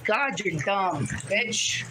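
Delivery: heated insults at chat; angry rant. Real, not acted. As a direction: snap at the troll. Yelling insults at chat troll.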